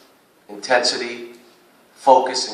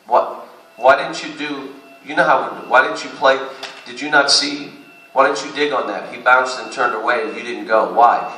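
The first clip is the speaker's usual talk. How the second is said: coach yelling at player; 3 semitones higher, 5 dB louder than usual. Retold or imitated. Coach imitating himself yelling at a player who didn't box out. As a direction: bark the question at a lazy player. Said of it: "I don't have to yell".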